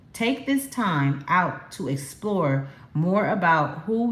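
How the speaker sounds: slow, measured card reading; reading aloud. Real, not acted. Tarot reader passing on the dragon's message, slow reading aloud. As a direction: read the message out slowly, word by word.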